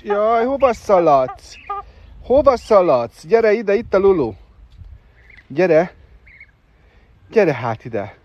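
high, loud calling after a runaway bird; calling a pet. Real, not acted. Calling the runaway duckling back, high and loud.

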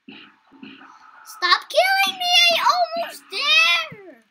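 very high, loud, slow wailing plea; desperate crying shout. Real, not acted. Being killed in game.

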